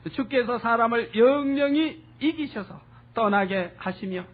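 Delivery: slow, measured reading with 영영히 stretched; scripture reading. Acted. Preacher reading the verse aloud to the congregation, slow and solemn. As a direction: read the verse out slowly and solemnly.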